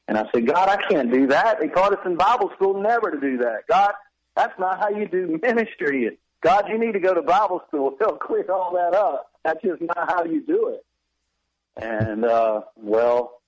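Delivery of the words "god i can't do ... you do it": higher-pitched, mock-indignant objection; incredulous protest. Young minister objecting to God's instruction, mock-indignant protest. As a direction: argue back in comic disbelief, pitched up.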